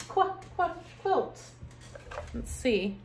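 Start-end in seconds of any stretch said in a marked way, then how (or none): 0.1-1.4 "Qu-, qu-" split off before "quilt", high and light; sounding out the q. Shown as a demonstration. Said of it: "sounds out the letter".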